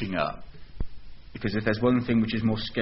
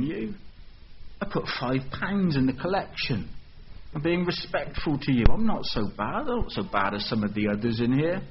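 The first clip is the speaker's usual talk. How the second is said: furious churchgoer; 2 semitones higher than usual. Acted. Churchgoer pleading his case to Jesus, mildly indignant. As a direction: stay polite on top, let the grievance push through. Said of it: "but furious".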